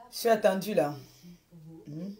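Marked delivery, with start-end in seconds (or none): 0.1-0.9 louder insist. Real, not acted. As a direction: stress that she is expected. (Je suis attendue, plus fort et plus aigu, insistant)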